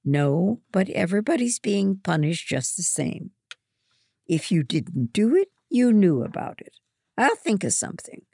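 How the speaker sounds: high, loud stern commands; strict house mother giving orders. A narrator's reading. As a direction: lay down the law to the girls. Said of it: "Mother orders".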